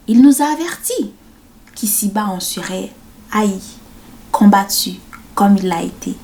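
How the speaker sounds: measured poem reading with long pauses between phrases; spoken-word poem, deliberately paced; poem recitation. Acted. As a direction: recite it line by line, letting each phrase hang. Le poème que je vais vous présenter.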